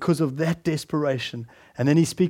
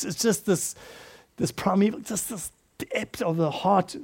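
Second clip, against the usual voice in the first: hushed; 8 dB quieter than usual. Real, not acted. Preacher softens describing primeval cry.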